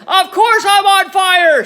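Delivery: high, loud furious screech; yelled. A narrator's reading. Grandma yells at George, loud furious screech. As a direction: snap back at him at full volume. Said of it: "she yelled".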